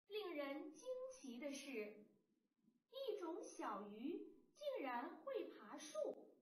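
slow, careful reading with mild wonder; model reading aloud. Shown as a demonstration. Teacher reads the sentence slowly for children to follow. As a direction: read it out slowly for little ones. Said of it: "我们一起读一读".

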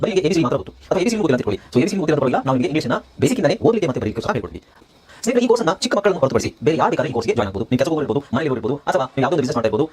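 brisk course promo read. Acted. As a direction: rattle off the advert briskly. Reads course promotion mid-lesson. (ಚುರುಕಾದ ಜಾಹೀರಾತು ಓದು)

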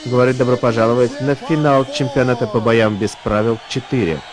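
ring announcer. Real, not acted.

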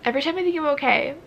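ordinary talk

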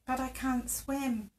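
softly voiced, nervous near-whisper. A narrator's reading. Sock tells his friend he can't swim, hushed whisper. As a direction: say it small and hushed. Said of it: "whispered Simon".

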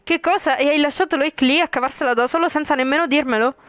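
high and loud, shocked anger; outraged outburst. Acted. Friend bursts out at the vampire for abandoning Loic, outraged and loud. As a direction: snap back in disbelief at being kept in the dark.

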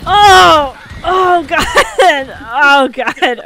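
high, loud startled cries; startled yelps. Real, not acted. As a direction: yelp as the horse lurches. Horse jumps over rocky ground.

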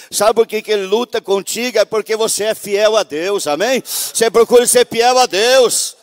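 loud, high fervent preaching; booming revival preacher; preaching at full force. Acted. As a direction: preach it out to the congregation with fire. Testimony turns to loud preaching.

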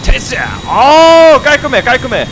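loud, thrilled cheering; excited cheer. Real, not acted. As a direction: celebrate the clean landing. Plane lands successfully.

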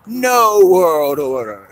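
slow, high, loud scream that fades on the repeat. Acted. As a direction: howl it out in despair. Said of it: "he screams out".

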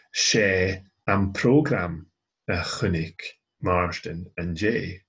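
"am program" slow, loud and fronted; stress on PROGRAM. Shown as a demonstration. Teacher showing Gaelic fronting, stressing "program". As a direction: draw out "program", then ease through the rest. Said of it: "want to emphasize that it's this particular program".

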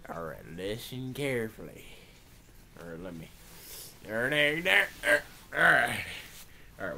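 low, sleepy goofy toy voice; lightly voiced goofy cowboy. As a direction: drone on like a dazed cowboy doll. Woody gives dopey advice.

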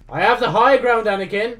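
high, loud dramatic declamation; playful hammed-up battle shout; mock film-hero cry. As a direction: call it out like a film showdown. Acts out film line in game.

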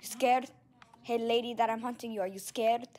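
loud, slow mock ghost; hammed-up ghost haunting; ghostly voice. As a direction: boom it out like a ghost. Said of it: "like, a ghostly voice".

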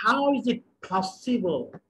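drawn-out, very slow teaching delivery; slow model sentence. Shown as a demonstration. Teacher modelling the sentence very slowly for students. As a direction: say it slowly for learners to copy. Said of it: "teacher models sentence slowly".

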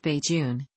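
Bajun said as BAY-jun; pronunciation of Bajan. Shown as a demonstration. Explaining the island's term for citizens, pronunciation shown. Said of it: "pronounced Bajun".

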